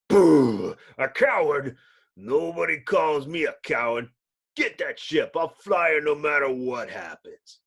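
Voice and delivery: loud, stung retort that stays loud; loud furious pilot refusing the insult; indignant outburst. Acted. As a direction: bellow back at being called a coward. Ben insulted, called a coward.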